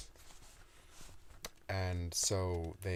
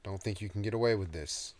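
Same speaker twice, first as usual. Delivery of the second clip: shouted challenge; 3 semitones higher, 5 dB louder, faster than usual. Acted. Toby challenging hidden demon.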